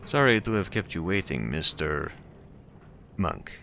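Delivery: put-on pleasant, cultured voice with slight Russian accent; amateur Russian accent, politely cautioning a visitor; hint of Russian accent. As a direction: lightly voice a courteous Russian. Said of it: "There's a hint of a Russian accent".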